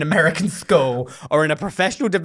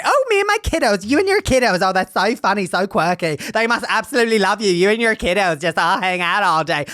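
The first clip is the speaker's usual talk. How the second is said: mocking gushy voice; 2 semitones higher than usual. Mocking kiddos-sayers.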